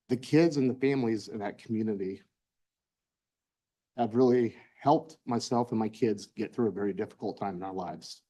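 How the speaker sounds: holding back tears as you speak; choked up. Real, not acted. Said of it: "Sorry, let me collect myself".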